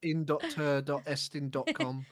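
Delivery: loud laughing through the words. Real, not acted. Cohost laughing loudly as she reads the fake link.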